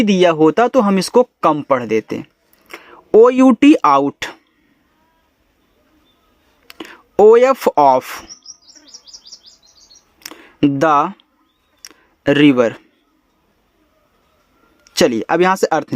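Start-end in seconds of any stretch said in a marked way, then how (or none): 3.1-12.7 letters and word read out slowly; slow spelling drill. Shown as a demonstration. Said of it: "spells then reads slowly". (धीरे धीरे spelling बोलना)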